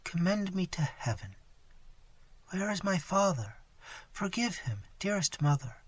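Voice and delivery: soft, failing last words, whisper at times; dying daughter begging forgiveness, soft and faint. Acted. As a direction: speak on the last breath.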